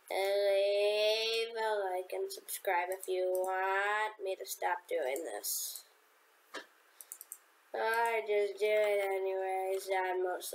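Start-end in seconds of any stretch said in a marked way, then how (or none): 0.1-5.8 slow mock plea.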